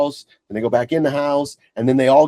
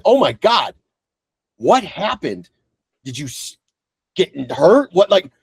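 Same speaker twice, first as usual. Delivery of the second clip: high, worried rush of questions; panicked dad checking on his daughter; alarmed concern; 4 semitones higher than usual. Retold or imitated. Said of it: "I'm like".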